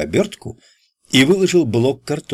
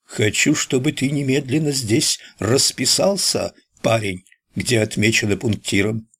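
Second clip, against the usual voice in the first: lightly voiced announcer; a hint of a newsreel announcer; newsreel narrator. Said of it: "продолжил голосом диктора кинохроники".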